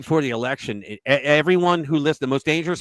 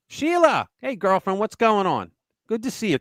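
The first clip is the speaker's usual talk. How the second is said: higher-pitched, playful call-out to a friend; hearty greeting; 5 semitones higher than usual. Real, not acted. Host greeting a regular viewer, hearty call-out. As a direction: sing out a delighted hello.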